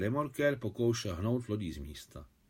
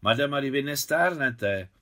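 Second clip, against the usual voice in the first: excited exclamation; 4 semitones higher than usual. Acted. Jacques excitedly complimenting Maria on her looks. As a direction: exclaim it with delight. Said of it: "vykřikl vzrušený Žak".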